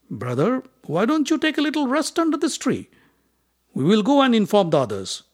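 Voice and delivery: high, sweet, falsely kind; sly scheming voice. A narrator's reading. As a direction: coax him to rest with fake care. Duryodhana sending Bhima to rest.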